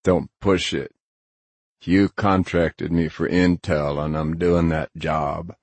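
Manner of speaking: a hint of a gruff hired hacker; lightly voiced Grinner, stern. Grinner sets his client straight about the job, mildly stern. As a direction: lay down terms in a mildly gruff character voice.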